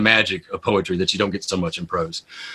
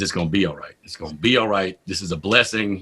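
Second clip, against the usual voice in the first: lower, softer self-reassurance; calming self-talk; 4 semitones lower, 5 dB quieter than usual. Retold or imitated. Poet steadying himself before walking in, calming self-talk. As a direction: talk yourself down gently.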